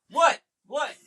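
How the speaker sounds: high, loud playing-dumb teen; mock clueless daughter. Dad imitating his daughter dodging a chore, mock clueless. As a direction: act the baffled preteen who won't hear.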